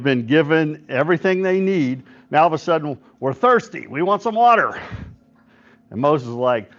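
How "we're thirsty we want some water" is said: mock complaint rising higher at the end; complaining. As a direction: imitate a demanding, complaining crowd. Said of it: "People are complaining".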